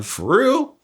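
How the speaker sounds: high rising disbelief; stunned. Retold or imitated. Young inmate hearing about the execution, high stunned disbelief. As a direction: shoot way up high in shock. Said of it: "So I'm like".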